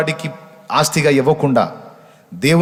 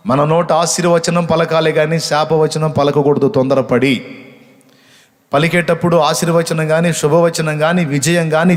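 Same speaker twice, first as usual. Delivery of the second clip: fervent preaching; 4 semitones higher than usual. Acted. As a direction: drive each phrase home to the church. Preaching at full force.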